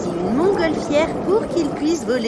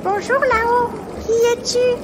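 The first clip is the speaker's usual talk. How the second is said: high, loud call to the sky; 12 semitones higher, 5 dB louder than usual. Acted. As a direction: shout up to the pterodactyl overhead. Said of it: "Toto cria". (appel crié vers le ciel, aigu et fort)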